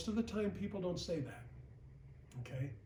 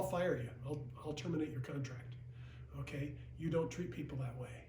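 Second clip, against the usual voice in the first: hushed, unvoiced reproach; stern whisper; 3 semitones lower, 7 dB quieter than usual. Real, not acted. Manager warning new agents about pressure tactics, whispering. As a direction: drop to a whisper to drive it home.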